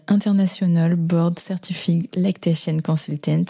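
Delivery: acronym spelled out in an English accent. Shown as a demonstration. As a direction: read the English title with an English accent. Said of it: "je prends mon accent anglais pour changer de mon accent américain".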